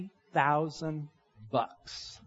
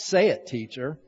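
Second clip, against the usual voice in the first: lower, mock-arrogant reply; sarcastic, arrogant; 4 semitones lower than usual. Simon answering Jesus in the retold parable, mildly sarcastic. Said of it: "the sarcasm, the arrogance in Simon's response".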